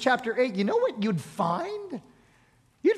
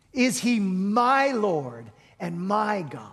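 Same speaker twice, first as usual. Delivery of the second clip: preaching climax; 2 semitones lower, slower than usual. Acted. Preacher's climactic rhetorical question.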